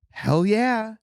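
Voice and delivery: high, loud hell-yeah cheer; excited cheer. Retold or imitated. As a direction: cheer it like a fan. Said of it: "I'm sitting at home being like".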